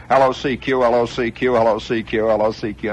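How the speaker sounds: repeated rhythmic CQ calling; ham radio call. Retold or imitated. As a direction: call for anyone on the band.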